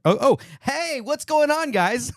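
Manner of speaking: high, bright fake surprise; mock surprise. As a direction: act caught off guard. Mock-surprised greeting to camera.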